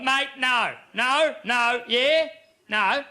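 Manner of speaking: pit boss telling off. Retold or imitated. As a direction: scold the drunk punter firmly. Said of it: "The pit boss has come up to me".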